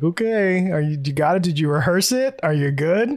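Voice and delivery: jokey greeting-message checking in; pretending to be funny. Host replays their jokey voicemail greeting, pretending to be funny. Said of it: "pretending that I'm funny and being like".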